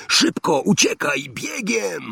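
high, urgent cry to flee; urgent shout. A narrator's reading. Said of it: "wrzasnął Harry". (Harry ponagla Hermionę do ucieczki, wysoki krzyk)

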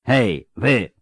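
understated roar to the guards; bellow, held back a little; roared call. Acted. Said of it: "zaryczał Bonhart". (stłumiony ryk do strażników)

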